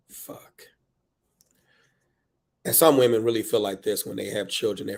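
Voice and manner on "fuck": soft, spent swear after a yell; deflated curse. Acted. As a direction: let it drop, much softer.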